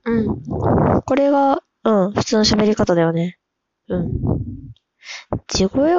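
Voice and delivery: 普段の自分に戻そうと、少し抑えたトーン; 作らない地声で淡々と確かめるように; 地声の普通の喋り方. Shown as a demonstration. (地声に戻して話す)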